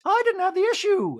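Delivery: high, loud mock voice; mock Denise. Recapper mocking Denise's reply, high. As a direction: bounce it back high. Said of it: "And Denise goes".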